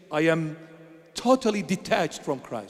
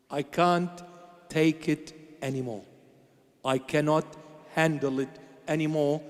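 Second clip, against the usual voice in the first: quiet retold pleading; 3 semitones lower, 4 dB quieter than usual. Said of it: "I begged the Lord".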